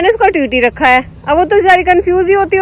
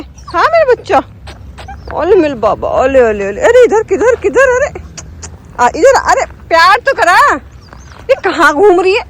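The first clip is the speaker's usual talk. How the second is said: high, cooing pet talk; 4 semitones higher than usual. Real, not acted. Vlogger coaxes the wandering puppy, doting baby talk. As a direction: coo and coax the puppy.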